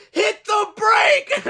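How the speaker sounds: very high, slow shout; slow yelled warning. Retold or imitated. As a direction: yell it urgently from the street. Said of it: "the firefighter yell".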